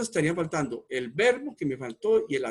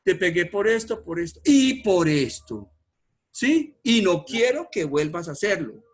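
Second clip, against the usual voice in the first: scolding parent; 3 semitones higher, 6 dB louder than usual. Pretend. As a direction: scold a child, counting off each reason, louder. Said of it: "cuando ustedes van a castigar a un niño".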